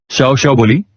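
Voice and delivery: ordinary delivery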